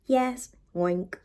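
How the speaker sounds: unvoiced whisper. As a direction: breathe it like a secret. Piggy tells secretly.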